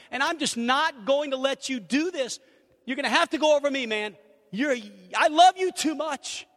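building from firm to loud and high pleading; earnest loving confrontation. Acted. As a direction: push harder each line until you plead. Confronting a friend out of love.

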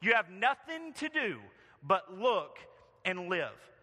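loud, high revivalist shout; shouted preaching. Acted. Primitive Methodist exhorting a young man to look to Jesus, acted shout. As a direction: cry it out like a Methodist country preacher. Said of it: "he shouted as only a primitive Methodist could do".

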